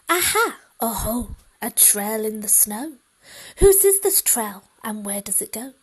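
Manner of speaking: put-on a brave child on the hunt; excited child. Child finds trail in snow.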